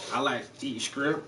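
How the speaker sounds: down-home country Southern accent. Shown as a demonstration. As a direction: show off your natural Southern twang. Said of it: "I can sure do a goddamn Southern accent".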